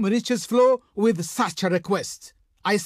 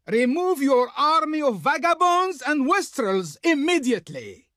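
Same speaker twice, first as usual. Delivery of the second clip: higher-pitched, affronted command; indignant envoy; 3 semitones higher than usual. Acted. Envoy expelling foreign troops from Pharaoh's lands, indignant. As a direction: order the trespassers out with imperious outrage.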